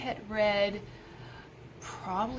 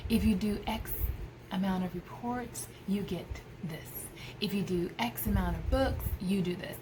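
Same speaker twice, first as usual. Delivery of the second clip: whisper; 6 dB quieter than usual. Real, not acted. Quiet aside about incentives.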